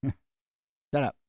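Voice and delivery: laughing through the words; amused echo of the retort; laughing repeat. Pretend. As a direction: say it again while cracking up.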